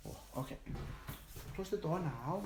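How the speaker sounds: breathy whisper, no voice; whispering over a crib. Real, not acted. Baby sleeping nearby.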